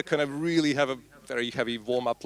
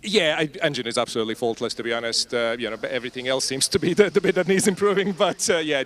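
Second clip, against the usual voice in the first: out of breath; 3 semitones higher, 7 dB louder than usual. Real, not acted. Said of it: "Sorry, I'm out of breath".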